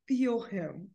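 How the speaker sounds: real, quiet tearfulness; soft and halting, holding back tears; starting to cry. Real, not acted. Grieving owner feeling her dog's love and joy, starting to cry. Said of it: "as I start becoming a crying mess".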